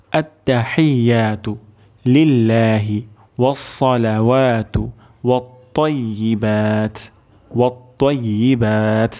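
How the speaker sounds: slow, measured Arabic recitation; careful recitation. Shown as a demonstration. Teacher recites the whole phrase for learners, careful recitation. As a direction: draw out each long vowel, word by word. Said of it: "সম্পূর্ণ উচ্চারণ করছি আরেকবার".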